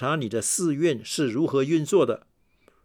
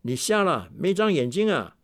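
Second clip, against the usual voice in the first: retold shout; 4 semitones higher than usual. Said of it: "他也用相同的话大叫：".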